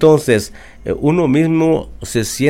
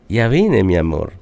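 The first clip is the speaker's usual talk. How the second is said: tender tone; 6 semitones lower than usual. Retold or imitated. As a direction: say it gently, like a sweetheart coming home. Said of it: "Solo con el tono de la voz".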